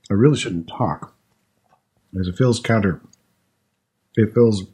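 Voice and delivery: talking while chewing; words around a mouthful; mouth full. Real, not acted. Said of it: "not to talk with your mouth full".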